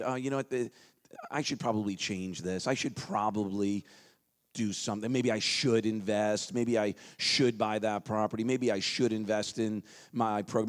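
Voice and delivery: mild mock hesitating. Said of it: "How many of y'all have said".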